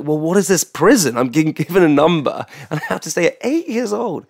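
retold child's protest, breaking into a laugh; laughing disbelief. Man recalling his first boarding school night, laughing. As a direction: laugh through the memory of it.

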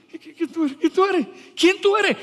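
rising pitch, pressing harder with each question; incredulous challenge. Acted. Preacher demanding of the congregation who they think they are, rising incredulous challenge.

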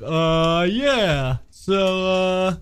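mock unprepared host, stalling; sluggish imitation. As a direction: imitate a host with nothing ready. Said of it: "sit here and be like".

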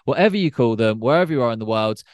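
presenter's welcome with lifted pitch; podcast host introduction. Acted. Podcast host reads the show introduction.

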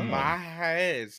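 Maize with a rolled r. Shown as a demonstration. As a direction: roll the r in Maize. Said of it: "I rolled the R for".

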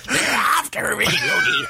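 squeaky strangled Irish leprechaun voice. Pretend. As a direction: squeeze it out like a strangled parrot. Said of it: "parrot that's being strangled".

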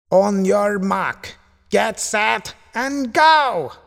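high, drawn-out call climbing to "go"; shouted race start. A narrator's reading. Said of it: "shouted her uncle again".

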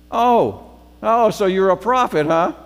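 high, loud, sassy retort; feisty. Retold or imitated. Samaritan woman sassing Jesus at the well, feisty and loud. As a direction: needle him with mock amazement. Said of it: "she's still kind of feisty".

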